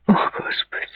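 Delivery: softly muttered, barely voiced; breath of dismay under the voice; guilty mutter. A narrator's reading. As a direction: mutter like a child caught out. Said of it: "пробормотала она, точно ребёнок, уличённый в чём-то дурном".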